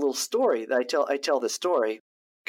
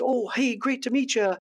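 bright, higher, hearty greeting as the smooth confident guy; mock confident guy; 7 semitones higher than usual. Imitating Mike greeting the producer, high and hearty. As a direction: ham up the slick, confident charm.

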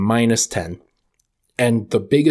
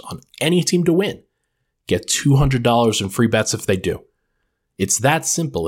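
upbeat sponsor ad read. Acted. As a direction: sell it like a radio spot. Podcast host reads sponsor ad.

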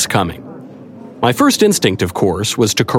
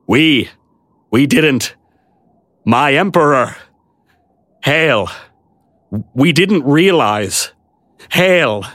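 abashed knight; 5 semitones higher, slower than usual. A narrator's reading. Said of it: "abashed bewilderment".

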